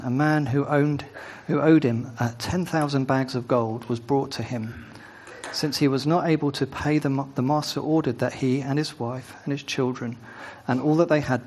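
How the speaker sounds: measured, even Bible reading aloud; unhurried reading with light weight on key phrases; scripture reading. Acted. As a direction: read the passage evenly to a congregation. Reads scripture aloud to congregation.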